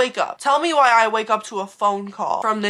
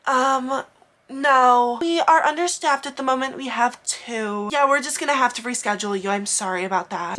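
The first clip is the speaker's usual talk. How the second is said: a lightly put-on receptionist voice, drawn out; hint of a flustered receptionist stalling; mock receptionist; 2 semitones higher than usual. Receptionist telling the patient they're understaffed, lightly mocked.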